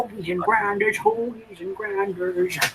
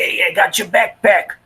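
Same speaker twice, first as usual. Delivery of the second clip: sneaky, sly put-on fox voice. Imagining a casting choice for the fox: Danny DeVito as Swiper. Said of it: "He'd be like".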